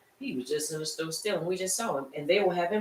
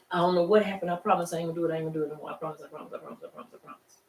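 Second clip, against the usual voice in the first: put-on whimpering child; much faster than usual. Child promising again, fading.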